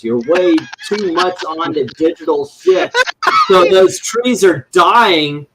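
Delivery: put-on Yiddish accent. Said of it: "Who let my dad on this stream".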